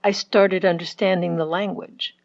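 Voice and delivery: emphasis on "started" and "understanding"; stressed verbs. Shown as a demonstration. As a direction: punch "started understanding" a little. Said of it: "The verbs".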